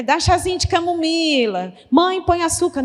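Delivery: high, fast, fretting call to mom; anxious young mother. Retold or imitated. Daughter phoning her mother about colic, frantic and high. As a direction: rush it out like a worried new mom.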